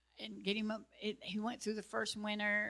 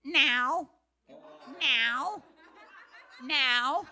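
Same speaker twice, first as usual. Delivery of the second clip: loud, higher cat-like meow of "now"; talking cat; 5 semitones higher, 9 dB louder, much slower than usual. Retold or imitated. Hungry cat at her door demanding food, loud meowing cat voice. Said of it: "and says".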